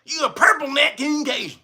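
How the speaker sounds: high, hammed-up name-calling; mock outrage. Host playing his outraged accuser, mock scolding. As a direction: scold in a high voice on the edge of laughter.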